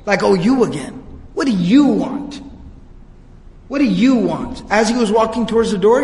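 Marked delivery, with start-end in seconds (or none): 0.2-4.6 imitated disdain, leaning on "you". Abu Jahl answers the man at his door, disdainful. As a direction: greet an unwelcome visitor with weary contempt. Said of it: "you could hear the disdain in his voice".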